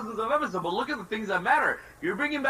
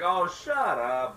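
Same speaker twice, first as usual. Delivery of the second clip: mock dismissive; 2 semitones lower, much slower than usual. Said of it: "you guys are gonna be like".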